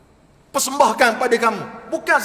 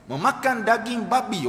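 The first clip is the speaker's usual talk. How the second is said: speaker demonstrates the coarse word to listeners, firmer voice. Acted. Preacher contrasting pork words for listeners, coarse version. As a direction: say it plainly and firmly, as the coarse version. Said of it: "oh, kasar".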